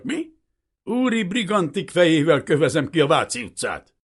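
loud, high furious tirade; vengeful shouted rant; ranting, snarling. A narrator's reading. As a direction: spit threats and accusations without letup. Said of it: "Egy végtéből acsarkodott".

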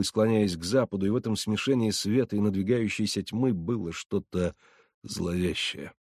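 ordinary delivery

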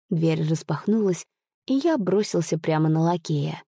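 plain reading voice

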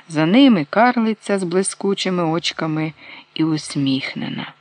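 usual speaking voice

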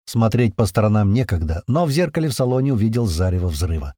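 ordinary delivery, nothing marked

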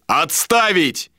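high, drawn-out yell; yelled countermand. A narrator's reading. Captain overrules the mate, high slow yell. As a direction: bellow it to overrule him. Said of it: "заорал Иштар".

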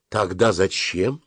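pressing, slow and insistent; with pressure. A narrator's reading. Mother pressing her son for an answer, insistent. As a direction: lean on every word. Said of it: "спросила мама с нажимом".

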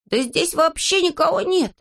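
high, drawn-out astonished exclamation; astonished character cry, pitched well up; exclaiming. A narrator's reading. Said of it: "воскликнул Незнайка".

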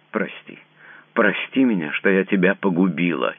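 a woman begging forgiveness, about to sob; sobbing plea. A narrator's reading. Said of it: "кинулась вдруг она ... и зарыдала".

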